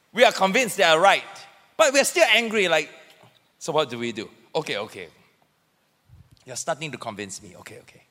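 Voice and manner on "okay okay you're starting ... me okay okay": low, soft giving in; subdued, play-acted okay; acted grudging concession. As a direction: back down quietly, trailing away. Acted reluctant concession in argument.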